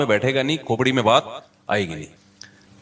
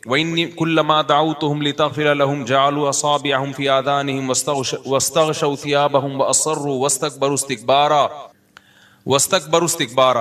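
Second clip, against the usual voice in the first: Quran recitation. Acted. Quranic verse recited in sermon. (قرآن کی تلاوت کے انداز میں)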